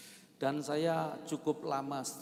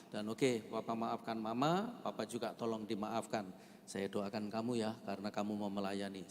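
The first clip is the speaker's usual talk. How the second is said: retold gentle apology; 4 semitones lower, 4 dB quieter than usual. Retells his conciliatory apology to wife.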